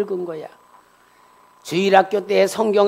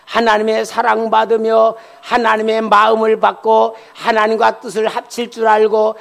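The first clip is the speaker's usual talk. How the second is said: insistent, sustained pulpit chant; rhythmic sermon build-up; preaching cadence; 2 semitones higher, 7 dB louder than usual. Real, not acted. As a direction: pile up phrase upon phrase in one steady tone.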